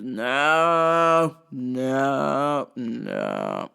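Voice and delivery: slow, halting redneck drawl; redneck customer. Retold or imitated. Drunk redneck customer asking the clerk for Benadryl, slow drawl. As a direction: drag it out like a dazed redneck. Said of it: "dare is a rednecky type customer".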